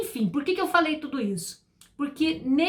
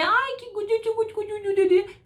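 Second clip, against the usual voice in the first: put-on much higher cooing baby-talk voice; mock baby talk; 9 semitones higher than usual. Teacher mocking parents who baby-talk, high cooing. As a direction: coo "gudu" at a toddler, overdone.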